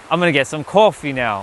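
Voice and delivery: lightly imitated Brooklyn "coffee", rounded oh; matter-of-fact uncle saying "coffee" with a long oh; Brooklyn pronunciation. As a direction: repeat as the Brooklyn uncle, "coffee" as KOH-fee. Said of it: "people in Brooklyn are saying".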